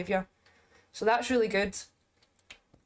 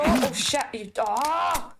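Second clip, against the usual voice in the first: startled; much slower than usual. Real, not acted. Startled by ghost attack.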